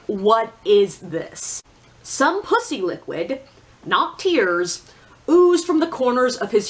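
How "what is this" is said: slow disbelief. Retold or imitated. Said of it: "I was just like".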